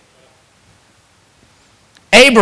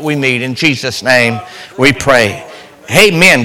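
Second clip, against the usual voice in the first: prayer. Acted. Preacher prays aloud before the sermon, earnest prayer. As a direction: pray over the congregation.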